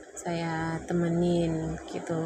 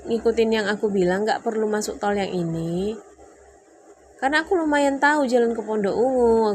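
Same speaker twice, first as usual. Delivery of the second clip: higher and louder, insisting; retold argument; 4 semitones higher, 7 dB louder than usual. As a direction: defend yourself hard to husband.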